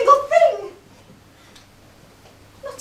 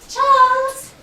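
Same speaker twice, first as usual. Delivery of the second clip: louder, insistent Charles?; firmer call; 4 dB louder than usual. Acted. Mother demanding an answer from her son, louder.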